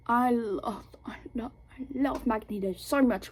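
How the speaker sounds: whispered, overcome adoration; breathy whispered fangirling; gushing whisper. Real, not acted. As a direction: gush under your breath like a besotted fan. Gushing over a favorite character.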